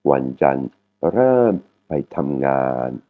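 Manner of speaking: Wanjan ram pai tam ngan slowly, only "tam" falling; normal tone except "tam". Shown as a demonstration. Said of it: "c'est en intonation normale". (Wanjan ram pai tam ngan, lentement, seule « tam » tombe)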